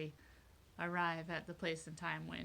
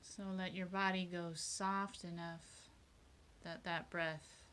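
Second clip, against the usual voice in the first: guided meditation; 6 dB quieter than usual. Real, not acted. Leader guiding a group to focus on breathing, meditative. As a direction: ease listeners into their breath, unhurried.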